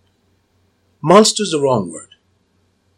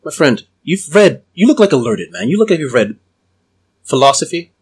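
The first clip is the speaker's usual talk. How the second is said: hypnotic voice. Acted. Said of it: "I'm gonna start using my hypnotic voice on him".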